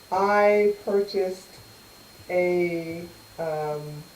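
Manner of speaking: muffled, underwater-sounding mic; like talking from underwater. Real, not acted. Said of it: "I sound like I'm underwater".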